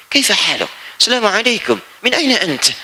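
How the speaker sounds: greeting in Arabic like a native Arab speaker; Arabic native accent. Shown as a demonstration. Preacher showing how Indonesians sound Arab, in native Arabic accent. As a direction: roll it out like an Arab from the Gulf. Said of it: "sama persis dengan orang Arabnya".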